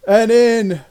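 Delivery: slow, drawn-out announcer call; hype man. Acted. Hype man introducing the fighters to a hushed ring, slow and drawn out. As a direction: build the hype, stretch the name. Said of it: "the hype man comes out".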